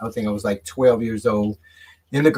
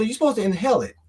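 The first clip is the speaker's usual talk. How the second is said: put-on higher, know-it-all kid voice; mocking kids; 8 semitones higher, much faster than usual. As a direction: lecture him like a smug kid. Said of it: "They say".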